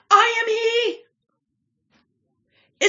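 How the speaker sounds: slow, drawn-out, high proud claim; healed man's slow declaration. Acted. Healed man settling the neighbors' argument, slow and solemn. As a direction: stretch out each word like a solemn confession.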